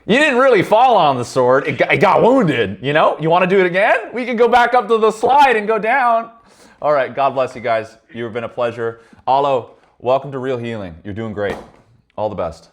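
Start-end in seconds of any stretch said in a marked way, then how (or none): 0.1-8.4 very high, loud coaxing voice; mock soothing. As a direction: talk him down like a child on a playground.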